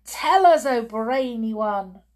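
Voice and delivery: high, loud plea that eases off; eager cry. Acted. Witches imploring their brainy leader, high eager cry. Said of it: "they cried".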